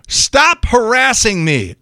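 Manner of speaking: high, slow, indignant imitation; indignant mock outburst. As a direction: mimic someone indignantly warding off a pursuer. Manager voiced snapping at him.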